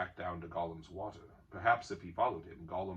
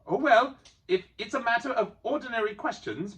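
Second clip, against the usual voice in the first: higher, louder retort; Bilbo replying; 13 dB louder than usual. A narrator's reading. Bilbo answering Gollum sharply. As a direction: answer back quickly. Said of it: "Bilbo replied".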